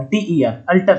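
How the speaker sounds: ordinary talk, nothing marked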